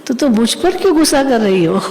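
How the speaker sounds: mildly affectionate reproach, opening gently; lightly voiced tender protest; loving, retold. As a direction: imitate a mother figure gently questioning someone's anger. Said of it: "इतना प्यार से मम्मा ने कहा".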